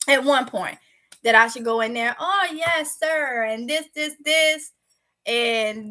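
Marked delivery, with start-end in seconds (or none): 2.2-4.7 lightly put-on proper voice, pitched up; proper interview voice. Job seeker mimicking how to talk at an interview, lightly put-on proper voice. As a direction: mimic being eager and proper, a bit higher. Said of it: "trying to be, you know, proper".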